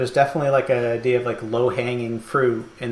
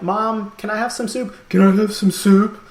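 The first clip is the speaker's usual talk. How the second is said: high mocking mom voice, louder on the repeat; 7 semitones higher, 4 dB louder than usual. Ad mom mocking her child for asking for soup. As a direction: sneer at the kid like a mean mom. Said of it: "like, mocking him".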